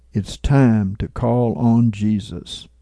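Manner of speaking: mildly softened, gentle quote; a touch of quiet empathy; soft, empathetic tone. Retold or imitated. Man beside the speaker urging him to call on Jesus, softly empathetic. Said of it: "said in a soft, empathetic tone".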